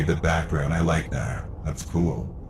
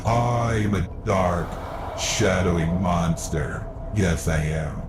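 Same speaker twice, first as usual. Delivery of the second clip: very slow, looming monster voice; dark shadowy monster; 2 semitones lower, slower than usual. Shown as a demonstration. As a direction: loom over them like a shadow. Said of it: "Do you like this?".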